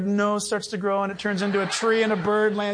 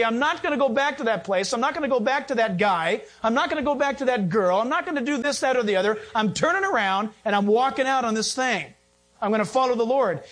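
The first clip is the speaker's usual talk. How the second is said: firm vow of turning away; resolute declaration; 2 semitones higher than usual. Pretend. Believer vowing to the congregation, firm resolve. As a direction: say it like you mean to walk out. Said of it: "Stand firm in Christ and say".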